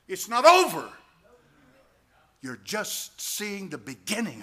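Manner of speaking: high, loud cry of warning; dramatic shout. Real, not acted. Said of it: "I'm not trying to be dramatic".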